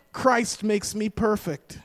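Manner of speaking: slow, deliberate proclamation; emphatic declaration. Shown as a demonstration. Preacher showing what to tell the devil each morning, slow and emphatic. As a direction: draw it out firmly, word by word. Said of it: "Let the devil hear it loud".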